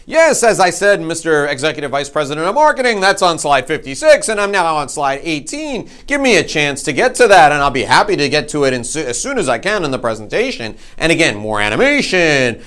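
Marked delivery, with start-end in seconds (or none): 0.1-10.8 high, loud, bright dismissal; breezy brush-off. Retold or imitated. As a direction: wave him off again cheerfully. Second dismissive reply.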